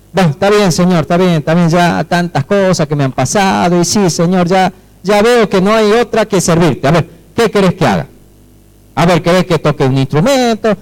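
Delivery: put-upon, resigned agreement to serve; grudging, not reverent. Acted. Worn-down believer telling God he will serve, grudging and impatient. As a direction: rattle off offers as if humouring God. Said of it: "Pero no era así".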